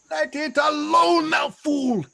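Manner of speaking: a sharp, shouted scold; angry rebuke. Acted. Caliban shouting at Trinculo to leave the trash alone. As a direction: snap it out at the fool.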